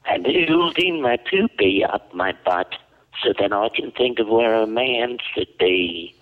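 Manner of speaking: attempted southern accent, loosely done. Shown as a demonstration. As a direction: repeat it with a rough southern twang. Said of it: "Can you do a southern accent".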